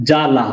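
জালা said as two beats, জা then লা; জালা with each open syllable given its own beat; two separate syllables. Shown as a demonstration. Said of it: "এটাকে দুবার উচ্চারণ হবে".

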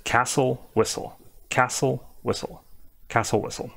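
castle, whistle with S straight into L; silent T. Shown as a demonstration. Teacher insisting it's just castle, silent T. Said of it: "don't need to be doing the T".

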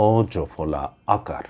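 অজফলা আকার said slowly, syllable by syllable; slow spelled-out demo. Shown as a demonstration. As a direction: draw out অজফলা আকার like a teacher. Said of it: "একারান্ত". (ধীরে ধীরে অজফলা আকার উচ্চারণ)

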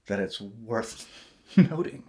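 slow repeat of "worth noting", laugh breaking in. Shown as a demonstration. Joking about redundancy, slow and laughing. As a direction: repeat it slowly as a joke, laughing.

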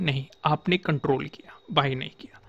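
soft unvoiced whisper on नहीं, आपने control किया; whispered aside. Teacher quietly praises the viewer for not buying, whispering. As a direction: breathe it out as a hushed approval.

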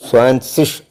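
സ്വാൻസിഷ് with ts start and sh end; German zwanzig. Shown as a demonstration. Teacher models the German word സ്വാൻസിഷ്. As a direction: say സ്വാൻസിഷ് as tsvan-tsish. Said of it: "സ്വാൻസിഷ് എന്നാണ്".

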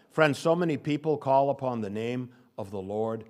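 ordinary delivery

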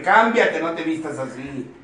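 bossy order. Acted. Mother ordering daughter.

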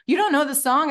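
high, loud disbelieving question; mock incredulous. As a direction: imitate a star astonished by the question. Star astonished at editor's ignorance.

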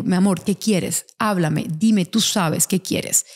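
put-on slow, gentle coaxing of a little girl; coaxing mother. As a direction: ask her sweetly, drawing it out. Mother coaxing daughter to speak.

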